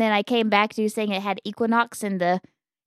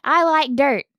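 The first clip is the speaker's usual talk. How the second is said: loud declaration; 5 semitones higher, 5 dB louder, slower than usual. Real, not acted. Defiant declaration.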